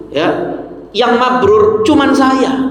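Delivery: slow, smug bragging of a proud hajj returnee; boastful pilgrim. Retold or imitated. Proud returning pilgrim boasting to the congregation, slow and smug. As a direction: drag it out like you're the only holy one. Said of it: "Gayae loh".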